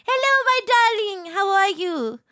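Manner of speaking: high, lilting hello to a darling; fond greeting. Real, not acted. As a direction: greet them affectionately, starting high. Fond greeting to arriving viewer.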